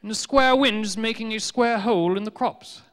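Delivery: a learned fool explaining the obvious; pompous scholar. Retold or imitated. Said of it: "Doctor Robert Plot's educated hypothesis was".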